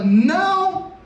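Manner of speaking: deliberate, spaced-out command; firm call that starts high; calling out reassurance. Acted. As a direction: project each word slowly. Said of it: "E depois ele fala".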